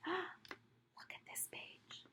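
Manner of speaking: slow, breathless whisper after a gasp. Real, not acted. Gasp, showing children the page.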